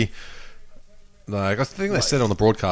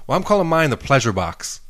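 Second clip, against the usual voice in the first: lightly imitated American woman; American accent; 3 semitones higher than usual. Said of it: "She had, like, American accent".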